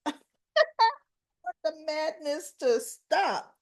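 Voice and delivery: slow, high, loud laugh-through plea; laughing exasperation. Real, not acted. Fed-up fan laughing to her viewers, exasperated plea. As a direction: laugh it out, begging the plot to end.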